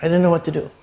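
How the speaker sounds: words pushed out past a lump in the throat; choked up. Real, not acted. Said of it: "I get a little choked up".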